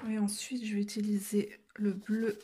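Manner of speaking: softly whispered aside to viewers. Real, not acted. To viewers during a quiet coloring stretch, whispered. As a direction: drop to a whisper while coloring.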